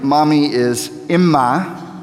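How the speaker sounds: imma said slowly, first syllable stressed: IM-ma; Imma teaching. Shown as a demonstration. Pastor teaching the congregation the Aramaic word imma, slow and clear. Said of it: "Can you say that?".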